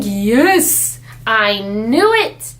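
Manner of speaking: drawn-out, gleeful mock cheer; retold triumph. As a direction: relish it slowly, as a personal victory. Retold joy at hearing boy.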